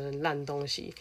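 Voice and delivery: breathy whispered put-down; whispered insult. Real, not acted. Suspecting the classmate stole the money, whispered put-down.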